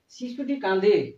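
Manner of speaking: slow, clear model reading of শিশুটি কাঁদে; slow model sentence. Shown as a demonstration. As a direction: read শিশুটি কাঁদে slowly for the class. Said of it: "প্রথমে যেটা রেখেছি সেটা হচ্ছে শিশুটি কাঁদে". (ধীরে স্পষ্ট করে পড়া)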